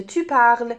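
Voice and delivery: "parles" said like "parl", s silent; silent final s. Shown as a demonstration. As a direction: end "parles" on the l sound. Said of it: "اس بی صدای تلفظ نمیشه". («parles» بدون تلفظ s، با l پایانی)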